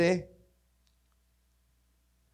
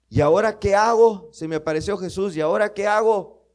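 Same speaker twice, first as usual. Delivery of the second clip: anxious Paul; 4 semitones higher, 4 dB louder than usual. Acted. Preacher voices Paul's anxious question.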